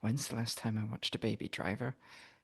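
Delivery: muttered quietly to oneself, under the breath. Voicing a character who talks to herself: muttering under her breath. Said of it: "she'll say under her breath".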